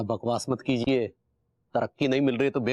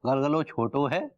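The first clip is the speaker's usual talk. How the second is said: mock recitation. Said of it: "मुशायरा मत शुरू कीजिए".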